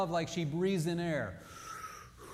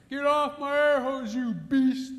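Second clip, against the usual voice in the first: high, loud, slow mock yell; mock angry wife; 8 semitones higher, 7 dB louder, slower than usual. Wife shrieking at the elephant on her air hose.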